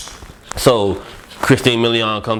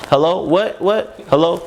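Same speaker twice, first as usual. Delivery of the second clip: faking bad reception; 7 semitones higher, slower than usual. Pretending bad phone line.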